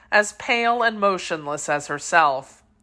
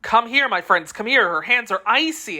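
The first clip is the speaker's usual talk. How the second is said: urgently calling friends over; 4 semitones higher than usual. Acted. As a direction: call out for help in alarm. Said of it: "exclaimed D'Artagnan".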